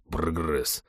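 low, soft dry aside; ironic remark. A narrator's reading. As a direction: drop a single understated, ironic word. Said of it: "иронично заметил Михалыч".

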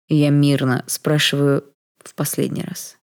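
slow, controlled warning; measured threat; menacing calm. Acted. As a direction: draw it out coolly as a last warning. Stranger's menacing final warning.

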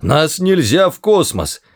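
high-pitched, urgent plea; pleading. A narrator's reading. Ford begging not to be thrown into space, pleading. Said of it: "взмолился Форд".

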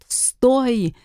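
high, urgent order without extra volume; barked order. A narrator's reading. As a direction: call out to halt someone, slightly growled. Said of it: "рыкнул Блейн". (резкий окрик)

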